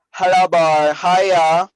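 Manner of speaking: loud, high Trinidadian greeting; Trinidadian accent. Retold or imitated. Imitating how people in Trinidad greet you, Trinidadian accent. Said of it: "the accent is a little scream out".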